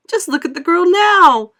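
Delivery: high, loud outraged cry; shrill cry. A narrator's reading. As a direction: cry it out in horror. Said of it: "cried Missus Beauregard".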